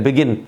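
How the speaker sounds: बिगिन with a stressed GIN and distinct n; clear final N. Shown as a demonstration. Teacher showing the clear ending, बिगिन as bi-GIN. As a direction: sound the last n of बिगिन clearly. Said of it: "एन जो है वो clear है".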